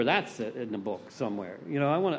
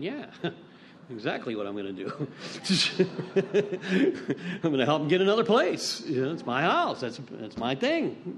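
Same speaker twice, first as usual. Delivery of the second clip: mocking laugh. Retold inner voice, laughing.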